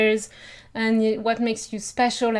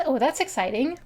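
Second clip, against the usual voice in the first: excited; 3 semitones higher than usual. Shown as a demonstration. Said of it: "We cannot be as excited".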